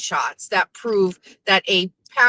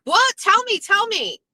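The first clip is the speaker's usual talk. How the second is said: high, eager pleading to hear the news; mock eager excitement; 12 semitones higher than usual. Retelling her eager reaction to chat, high and eager. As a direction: beg to be told like a gossip hungry fan. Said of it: "And I was like".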